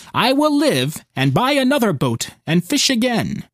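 put-on a lively old sailor bracing himself; old fisherman voice. Fisherman speaks, braced at rail.

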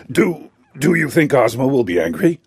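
stammering, worried question; a hint of a nervous king, halting at the start; anxiously. A narrator's reading. Gnome King to his steward, fearing Ozma, anxiously. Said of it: "he asked anxiously".

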